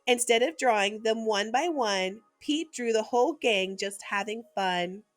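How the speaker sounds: lively picture-book read-aloud; reading to children. A narrator's reading. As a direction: read it like a bedtime story for little ones.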